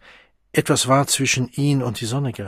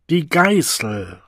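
crowd answer; 4 semitones higher, slower than usual. Acted. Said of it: "antworteten hundert Stimmen durcheinander".

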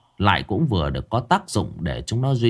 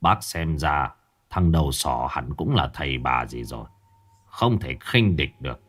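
a lightly voiced uncle, calm and low; hushed old uncle; 4 semitones lower than usual. Uncle whispering a plan.

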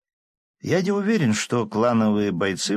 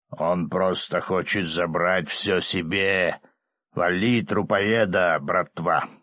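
demon voice; 2 semitones lower, slower than usual. Acted. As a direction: goad the bandits as a demon. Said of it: "Голос Чингира".

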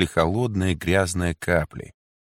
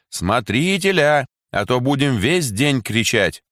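demanding shout; 6 semitones higher than usual. A narrator's reading. Women keep demanding the warden.

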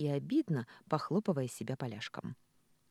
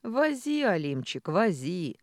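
весёлый окрик; 3 semitones higher, 5 dB louder, slower than usual. Acted. Михаил весело кричит.

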